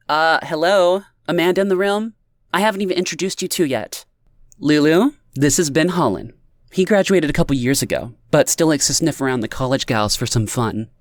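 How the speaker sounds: put-on high, bubbly tipsy girl voice; giddy tipsy friend. A narrator's reading. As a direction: play the giddy drunk friend.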